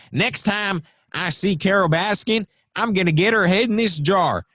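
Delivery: high-pitched mock threat to a rival; Joe Exotic. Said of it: "all his little shows about, like".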